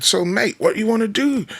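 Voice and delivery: loosely imitated Scottish accent; attempted Scottish accent. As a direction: try a friendly Scottish lilt. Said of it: "he's from Scotland".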